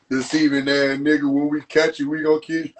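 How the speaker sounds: low, menacing threat in a gangster voice; mock street threat. Playing a gangster threatening the snitch, low and menacing. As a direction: growl it like a hood enforcer.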